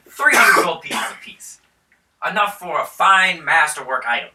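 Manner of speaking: a hint of a generous lord bargaining; mildly grand baron; lightly voiced baron. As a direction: offer the gold grandly. Baron offers reward.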